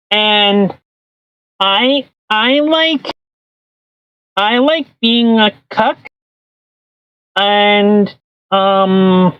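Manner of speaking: slow, halting mock Trudeau voice; lightly voiced Trudeau impression; Justin Trudeau impression. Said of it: "That voice, though".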